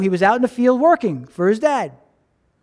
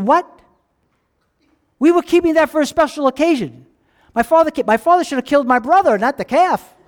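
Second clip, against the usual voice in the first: higher, raised indignant protest; 4 semitones higher than usual. Acted. Older son protesting to the servant, indignant. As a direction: complain like the calf was stolen from you.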